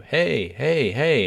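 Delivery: high mock call for attention; retold yelling. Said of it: "And I'm yelling at you".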